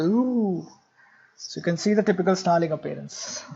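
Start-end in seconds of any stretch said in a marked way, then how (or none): 0.0-0.7 snarl. Shown as a demonstration. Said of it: "they always snarl like this".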